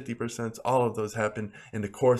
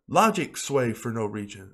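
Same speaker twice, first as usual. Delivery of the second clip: ordinary delivery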